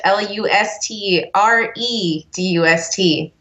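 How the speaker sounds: slow letter-by-letter spelling; spelled out slowly. Shown as a demonstration. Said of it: "how do you spell Luster Dust".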